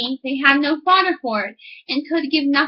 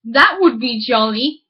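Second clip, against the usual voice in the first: louder, delighted exclamation; delighted miller; 2 semitones lower, 3 dB louder, slower than usual. Acted. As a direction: exclaim with glee. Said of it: "cried the miller".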